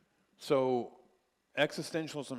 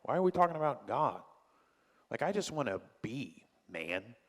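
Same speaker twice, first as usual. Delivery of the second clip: apathetic existentialist; 2 semitones higher than usual. Retold or imitated. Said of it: "Existentialists are like".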